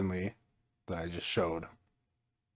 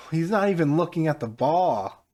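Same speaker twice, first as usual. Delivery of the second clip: disbelieving; 7 semitones higher, 5 dB louder than usual. Real, not acted. Disbelief at own goal.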